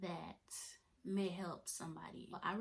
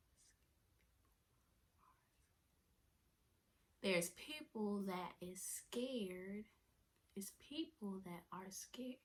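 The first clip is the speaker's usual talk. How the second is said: whisper. Real, not acted. Redoing the line in a whisper.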